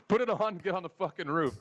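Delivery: no arguing now, shout it. Retold or imitated. Manager yelling the kid up to the roof, loud bark. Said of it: "Wasn't a question".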